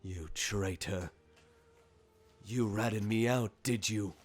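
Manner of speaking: measured, menacing accusation; slow opening, then press the traitor harder; accusing Varomir. Acted. Varomir accuses the old elf.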